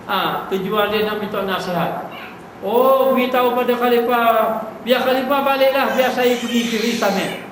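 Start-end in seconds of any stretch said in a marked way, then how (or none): 2.7-7.5 pembantu ulama, suara sedikit tinggi dan mendesak. Acted. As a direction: lakonan ringan pembantu yang menghalau tetamu. Pembantu ulama menjawab di pintu. (pembantu ulama menyuruh khalifah pulang, nada sedikit tinggi)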